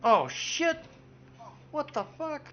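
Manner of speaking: sudden loud high yelp of shock; real jump-scare outburst; startled shout. Real, not acted.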